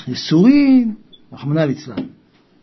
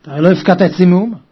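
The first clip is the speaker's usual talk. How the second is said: feigned indifference; much faster than usual. Acted. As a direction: play dumb, as if nothing was left with her. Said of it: "שאלה באדישות". (באדישות מעושה)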